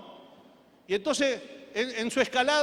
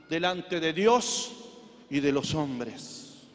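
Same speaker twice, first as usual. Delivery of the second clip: low, softened, measured preaching; subdued pastoral call to commitment; solemn closing appeal; 7 semitones lower, 5 dB quieter than usual. Real, not acted. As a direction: gently exhort the congregation with long pauses.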